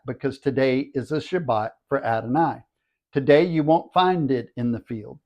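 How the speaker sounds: measured read-aloud narration; scripture reading. Acted. Teacher reads the manna story to listeners, scripture reading. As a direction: read the passage out evenly, phrase by phrase.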